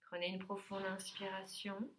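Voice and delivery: calm yoga teacher settling the class; guided relaxation. Real, not acted. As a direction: give unhurried instructions with long pauses between phrases. Leads a yoga nidra session.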